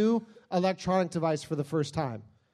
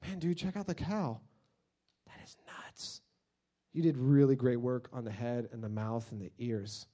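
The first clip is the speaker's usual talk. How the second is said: awed dude; 6 semitones lower, 4 dB quieter than usual. Retold or imitated. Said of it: "they're like".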